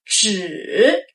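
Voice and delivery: 纸 dipping low then rising; third tone zhi. Shown as a demonstration. Teacher demonstrating 纸 for learners, dipping tone. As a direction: dip then lift on 纸. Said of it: "deep then rise".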